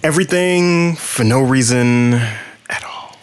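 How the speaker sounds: slow playful whisper. Pretend. Co-host rounds off the podcast intro, whispering. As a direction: whisper the tagline slowly. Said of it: "And we're whispering".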